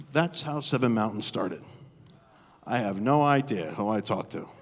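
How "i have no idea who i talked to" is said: lower, amused through a laugh; laughing aside. Real, not acted. Pastor telling the congregation, laughing. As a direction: share the joke with the crowd.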